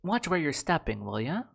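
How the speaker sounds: put-on a light tough-girl voice; sassy warning, lightly voiced; a hint of a cocky streetwise girl; new character voice. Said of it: "you're giving a very specific vibe".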